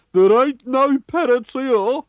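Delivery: high, loud, slow pirate retort. A narrator's reading. Peg-legged pirate scoffs at the feather, high slow. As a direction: scoff like a salty old pirate. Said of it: "said Pegleg".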